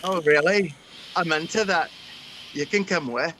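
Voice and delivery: lightly put-on Scottish accent. Inviting Mary along for laughs, Scottish accent. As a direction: do a playful Scot. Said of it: "he does the Scottish".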